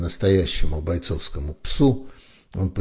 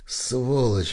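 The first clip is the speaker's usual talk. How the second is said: yelled insult; 7 semitones higher than usual. A narrator's reading. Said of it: "вдруг завопил Бершева".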